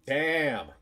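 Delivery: loud, high "damn"; big wow of admiration; impressed exclamation. Real, not acted. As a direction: blurt it out, bowled over. Reacting to attractive character.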